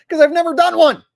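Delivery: loud, high burst at the end; fed-up outburst; exasperated. Real, not acted. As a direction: raise your voice in exasperation. Exasperated refusal of requested impression.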